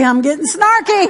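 playful snark; snarky. Real, not acted. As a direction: get a little sassy with it.

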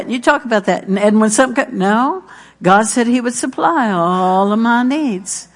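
ordinary delivery

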